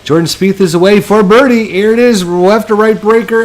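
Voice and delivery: rising, tense putt call; building excitement. Acted. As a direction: build the tension toward the putt.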